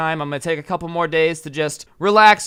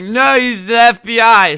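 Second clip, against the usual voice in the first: imitated panicked yell, high and drawn out; freaking out; 8 semitones higher, 11 dB louder than usual. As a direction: yell it like a Karen losing it. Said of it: "She's, like, freaking out".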